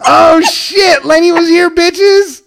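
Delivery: loud, high boastful crowing; mock bragging. Pals joking about burnout marks, mock bragging. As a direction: crow it playfully at the top of your voice.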